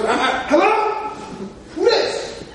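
groggy, confused phone pickup, pitch rising on who; sleepy friend answering. Retold or imitated. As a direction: friend woken by an early call, acting puzzled. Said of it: "He goes".

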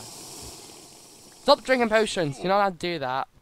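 slow, stern mock telling-off; mock scolding. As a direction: scold them playfully. Scolding enemy mid-fight.

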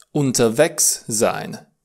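Unterwegs sein, slowed so each syllable is clear; slow teaching model. Shown as a demonstration. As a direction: spell out unterwegs sein for the learner. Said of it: "A fi la drum".

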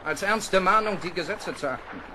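loud, stern warning to the officers; stern address. Acted. Captain warning his officers after an execution, loud and stern. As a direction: hammer the lesson home.

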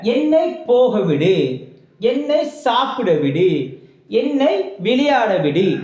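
slowly drawn-out model sentences; measured dictation. Shown as a demonstration. Teacher setting sentences to translate, slow and deliberate. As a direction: stretch each phrase for learners.

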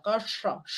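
Calla soft, with the tongue tip folded back; retroflex s. Shown as a demonstration. Teacher repeating the retroflex s demo. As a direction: quietly say Calla with a curled tongue. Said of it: "La punta de la lengua se dobla".

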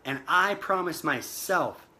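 slow, deliberate vow to yourself; firm affirmation. Shown as a demonstration. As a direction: say it like you mean every word, slowly. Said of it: "you need to say".

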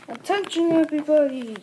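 loud announcement to all; calling out. Acted. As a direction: call out to the whole crowd.

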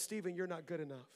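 quiet inner voice of doubt; quiet self-criticism. Retold or imitated.

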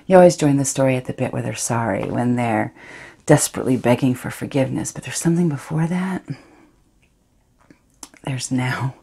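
Astrid, guilty yet thrilled, hushed and intimate; a woman savouring her secret betrayal; defiant confessional monologue. Acted.

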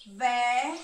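teacher splitting inverno into syllables. Shown as a demonstration. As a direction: punch out the syllable "Ver". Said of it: "vou marcar a sílaba ao passo que eu vou pronunciando".

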